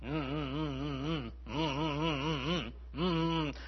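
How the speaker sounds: soft humming grumble under the breath; soft mock muttering hum; buzzsaw grumble. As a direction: hum like a buzzsaw, walking away. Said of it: "it sounds like a buzzsaw".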